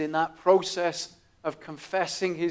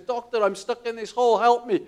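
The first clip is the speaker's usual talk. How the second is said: high, loud plea to the doctor; louder cry for help to a passing doctor; shouting for help; 6 semitones higher, 5 dB louder than usual. Retold or imitated. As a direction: call up from the hole, pitched high. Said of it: "he shouts up to the doctor".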